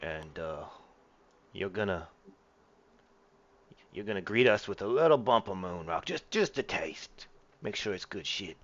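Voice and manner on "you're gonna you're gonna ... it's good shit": lightly voiced gangster; a hint of gangster in the voice. Crook laying out terms for boarding the ship, lightly voiced gangster. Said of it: "like a gangster or something".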